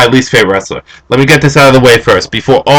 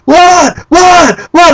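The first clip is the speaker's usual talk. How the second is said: high, repeated mock shriek; startled girlfriend; much slower than usual. Imitating girlfriend startled by his screaming, high shrieks. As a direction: fire it off in a high panic. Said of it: "and Christine's like".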